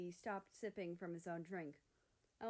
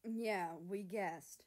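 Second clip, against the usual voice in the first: scoffing; 3 dB louder, much slower than usual. Acted. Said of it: "Mexico scoffed".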